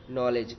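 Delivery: नॉलेज said with no k, starting on the n; नॉलेज with the के left silent; silent k shown. Shown as a demonstration. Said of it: "के silent है इसमें". (नॉलेज में के नहीं बोलना, सीधे न से शुरू)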